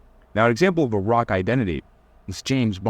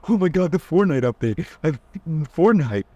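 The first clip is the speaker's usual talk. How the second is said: mock gushing, higher; excited; 7 semitones higher, slower than usual. Coach mocking a gamer hyped for the update, higher. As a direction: gush over the update like a fanboy. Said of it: "say it with enthusiasm".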